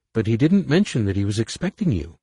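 put-on young girl voice. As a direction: play a bright teenage girl. Young daughter speaks.

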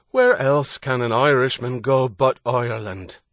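defiant shout in an Irish voice; angry Irish shout. A narrator's reading. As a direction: fling the question up defiantly. Shouting defiance through a hailer.

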